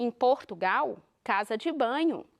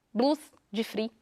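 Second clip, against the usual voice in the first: "Blusa de frio" in Minas Gerais accent, syllables swallowed as "blus de fri"; mineiro accent. Shown as a demonstration. Teacher demonstrating how a mineiro says it, in Minas accent. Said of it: "Como que o mineiro fala?".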